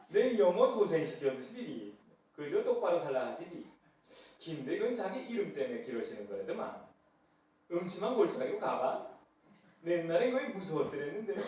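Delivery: loud, bold Pyongyang dialect reading. Pretend. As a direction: proclaim the psalm in a hearty Pyongyang dialect. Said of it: "평양 버전".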